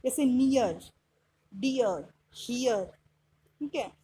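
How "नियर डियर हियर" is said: नियर, डियर, हियर each with an ee-ya glide; "ya" glide sound. Shown as a demonstration. Teacher giving examples of e-a, gliding नियर, डियर, हियर. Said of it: "य की sound से बना सकते हैं".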